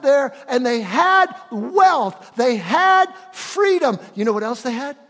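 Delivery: loud, high, rising preacher's cry; preaching at full force. Acted. Pastor to congregation about Israel's wealth, full preaching voice. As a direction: drive it home to the congregation, slowing on had. Preacher builds on Egypt story.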